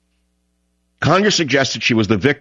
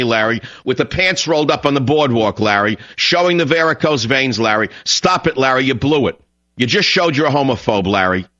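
contemptuous rant; 5 semitones higher than usual. Real, not acted. Host ranting at Larry King.

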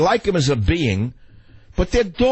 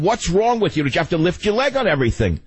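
retold scolding; 7 semitones higher than usual. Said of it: "I actually lost my temper".

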